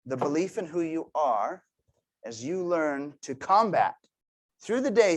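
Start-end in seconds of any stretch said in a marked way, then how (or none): 4.6-5.2 emphatic. Acted. Motivational emphasis.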